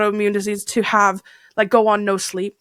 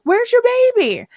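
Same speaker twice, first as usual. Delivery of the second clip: much higher imitated voice of a scolding stranger; accusing stranger; 14 semitones higher than usual. Stranger confronting a new mother outside Staples, high accusing voice. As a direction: play the nosy woman demanding answers. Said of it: "And she goes".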